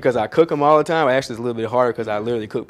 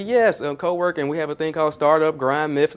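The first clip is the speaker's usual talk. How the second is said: a lightly put-on, higher Katie voice; imitating Katie; 4 semitones higher than usual. Katie tells the director about Startup Grind, lightly imitated higher voice. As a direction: play Katie answering brightly, only lightly voiced. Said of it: "acting like this is her voice".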